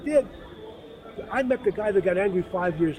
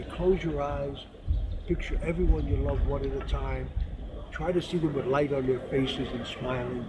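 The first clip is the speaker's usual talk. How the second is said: guided prayer; 5 semitones lower, 3 dB quieter than usual. Retold or imitated. Guiding worshippers at the Kotel.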